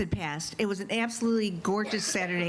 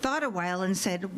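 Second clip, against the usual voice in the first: ordinary delivery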